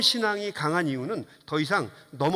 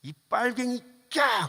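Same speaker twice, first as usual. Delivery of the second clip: higher-pitched imitation of an abusive heckler; mock heckling; 6 semitones higher, slower than usual. Heckler insulting a candidate on the campaign trail, mock high-pitched cursing. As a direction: mimic a jeer that breaks into a yelp. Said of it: "그렇게 욕하지 않고".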